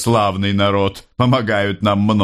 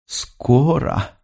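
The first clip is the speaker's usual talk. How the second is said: calmed mother; 7 semitones higher than usual. Acted. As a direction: repeat Скоро gently as a mother reassured. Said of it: "сказала мать, успокоенная".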